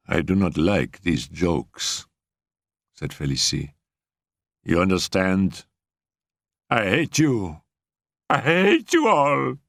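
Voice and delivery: slow, rising bitter fury; resentful anger. A narrator's reading. Félicie furious before crying.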